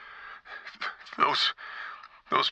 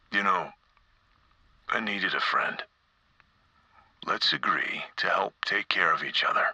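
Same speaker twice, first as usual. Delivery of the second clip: gentle coaxing; 3 semitones lower than usual. Acted. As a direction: coax a shy creature out. Coaxing a frightened rat.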